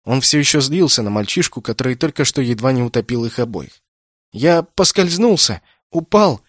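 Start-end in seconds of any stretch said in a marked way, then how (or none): 4.3-6.4 put-on high, slow child voice on the edge of tears; a scared boy slurring out his excuse; mumbling boy about to cry. A narrator's reading. Rescued boy explains to Kenneth, tearful and high. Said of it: "невнятно объяснил мальчик и зарыдал".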